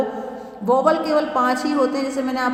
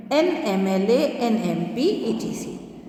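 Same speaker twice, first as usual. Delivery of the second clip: slow letter by letter; slow spelled examples; slower than usual. Shown as a demonstration. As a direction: dictate to the class. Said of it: "लिखा एन ऑनेस्ट मैन".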